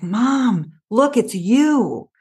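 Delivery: put-on high, slow, thrilled child's voice; a delighted small daughter showing mom a picture; lightly voiced excited kid; excited little girl. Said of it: "she was so excited".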